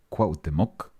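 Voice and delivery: careful Spanish accent on Cuauhtémoc. Shown as a demonstration. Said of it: "That's my best, uh, native accent".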